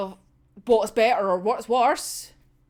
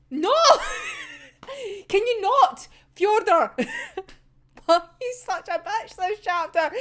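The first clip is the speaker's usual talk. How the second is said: exasperated scolding; 7 semitones higher, slower than usual. Real, not acted. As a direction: tell the villain off. Scolding the character.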